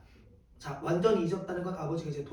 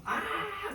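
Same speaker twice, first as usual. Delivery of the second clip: mock wail; 12 semitones higher, 5 dB quieter than usual. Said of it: "막 울어".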